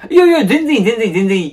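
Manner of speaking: high, loud, rushed reassurance; flustered reassurance. Acted. To girlfriend Sana, who is upset, in a flustered rush. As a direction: hurry to smooth it over.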